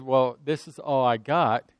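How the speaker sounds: hushed poor widow; widow's plea. Acted. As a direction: say it barely above a breath, ashamed of the little she has. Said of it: "when she said".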